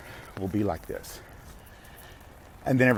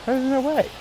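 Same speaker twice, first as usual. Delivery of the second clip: emphatic no way. Real, not acted. Insisting nobody would give control.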